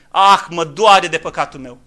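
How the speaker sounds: slow, subdued sigh of remorse; a held-back sorrowful confession; preacher voicing a sinner's quiet regret, softly. Shown as a demonstration. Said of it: "să zică omul".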